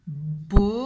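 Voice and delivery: loud, low "Bonnet" in two parts; syllable by syllable. Shown as a demonstration. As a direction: stretch "Bonnet" as bo, gap, nnnè. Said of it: "pour faire le son n".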